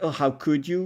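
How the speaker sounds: mock reproachful, disbelieving tone. Retelling a hairdresser's reaction, in a mock 'how could you?' tone. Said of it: "kind of tone".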